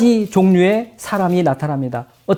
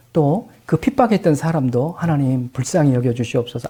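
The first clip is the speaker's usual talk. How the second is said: gentle prayer; 5 semitones lower than usual. Retold or imitated. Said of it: "이런 기도할 거예요".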